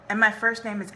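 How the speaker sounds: animated read-aloud with pauses between lines; expressive audiobook-style reading; story narration. A narrator's reading. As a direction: read a novel excerpt to listeners, lifting the dialogue. Reads the novel aloud.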